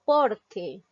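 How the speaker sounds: "Porque" with a strong first syllable, falling away on que; stress on POR. Shown as a demonstration. Teacher shows a grave word, stress on the next-to-last syllable. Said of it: "la mayor fuerza de voz recae en la".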